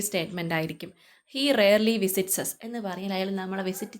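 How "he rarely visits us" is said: slow dictation. Shown as a demonstration. Teacher dictates example slowly.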